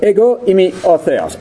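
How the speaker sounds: Ego eimi o theos in modern Greek: EH-go EE-mee o theh-OS; modern Greek pronunciation. Shown as a demonstration. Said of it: "I'm using the modern pronunciation".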